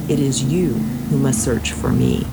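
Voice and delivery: lightly voiced stern deity; a hint of a god rebuking a follower. Nagai rebuking the warrior who demanded help, lightly stern. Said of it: "said Nagai sternly".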